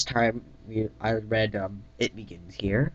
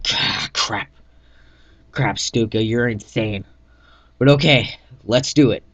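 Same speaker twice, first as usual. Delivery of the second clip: louder reluctant agreement; grudging yes shouted back; raised voice; 2 semitones higher, 7 dB louder than usual. Acted. Velocity agrees to the insane plan, raised voice.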